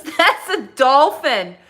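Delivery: high, loud, slow southern drawl; southern kid accent. Retold or imitated. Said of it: "he goes".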